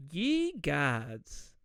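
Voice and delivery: drawn-out "Ye gods"; catchphrase impression. Podcaster quoting adorable Zanita's favorite saying, drawn-out exclamation. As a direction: imitate her stretched, exclaimed catchphrase. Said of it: "that she says that".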